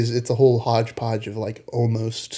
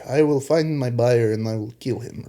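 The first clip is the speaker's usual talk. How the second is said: mild mock Russian accent. Film fan quoting the villain, slight Russian accent. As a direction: lightly put on a Russian accent. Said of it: "I said that in a Russian accent".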